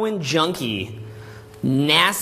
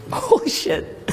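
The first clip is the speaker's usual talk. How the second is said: stunned; 12 semitones higher, slower than usual. Retold or imitated. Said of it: "And I was like".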